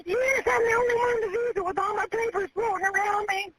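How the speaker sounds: answering through real tears; tearful, shaky answer to the dispatcher; crying. Real, not acted. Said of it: "I'm scared".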